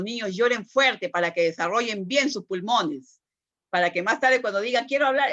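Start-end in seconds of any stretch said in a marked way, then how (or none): 4.9-5.3 imitating a grown child, higher and louder; mock strong demand, higher pitched and louder. Teacher imitates a child who cried hard, mock loud voice. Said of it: "una voz bien fuerte".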